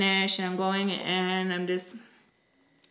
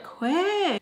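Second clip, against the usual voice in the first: firm quit; 9 semitones higher than usual. Retold or imitated. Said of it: "she's telling her".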